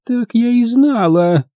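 put-on high, slow, disapproving old woman; drawn-out, high-pitched grievance; Grandma Bone, grim. A narrator's reading. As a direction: grumble darkly in a high voice. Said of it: "мрачно буркнула она".

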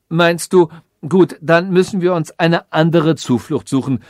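a hint of a commanding machine; instructing machine. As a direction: lay out the plan like a confident machine adviser.

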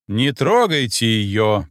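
slow, firm order; commanding. Acted. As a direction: lay down the order slowly. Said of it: "приказал он".

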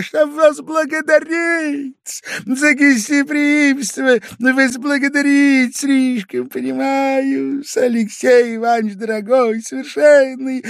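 put-on high, loud, slurred drunken pleading; drunk and tearful. A narrator's reading. Drunk guest tearfully begs his host's forgiveness. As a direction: plead almost in tears, drunk. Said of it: "с пьяным чувством, чуть не со слезами".

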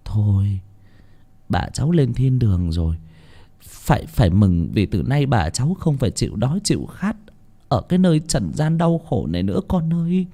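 put-on soft, tender consoling of a child; a bystander soothing the orphan; quiet reassuring words; gentle comfort. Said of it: "an ủi đứa bé".

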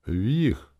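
plain reading voice

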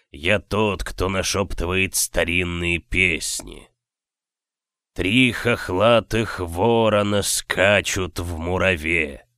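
slow, rumbling spirit voice; rolling thunder voice. Acted. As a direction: let it roll like thunder. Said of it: "нарастающие раскаты грома".

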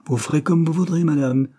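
lofty take-it-or-leave-it reply; haughty. A narrator's reading. Servant answering the refusal of the wine, haughty. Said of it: "dit Dobbs d'un air hautain".

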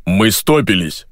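slow, lightly voiced deep-bass man; a hint of a booming bass; a touch of deep bass. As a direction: drawl it like a lazy giant. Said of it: "произнёс густой бас".

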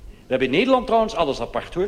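quick eager throw-in, "Nederland" stressed with a falling tune; quick excited aside. Real, not acted. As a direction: blurt out "we hebben in Nederland" fast and high. Same phrase restarted, faster and higher.

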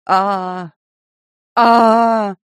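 a broken howl on one note, in bursts; monotone howl. Acted. Prisoner howling under torture, one broken note. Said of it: "колодник завыл ... на одной ноте".

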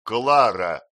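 loud warning call of her name; stern shout. A narrator's reading. Husband silencing wife, loud and stern. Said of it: "строго".

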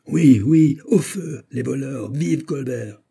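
high-pitched chorus of mob slogans; crowd shouting. A narrator's reading. The populace joins the attackers against the archers, crowd shouting. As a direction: cry out eagerly as one of the rabble. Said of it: "en criant avec la minorité".

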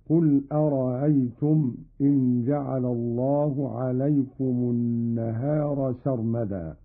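أرأيتم with the second hamza gliding, not stopped; softened second hamza. Shown as a demonstration. Teacher demonstrates the second verse, أرأيتم with softened hamza. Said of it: "بتسهيل الهمزة الثانية".

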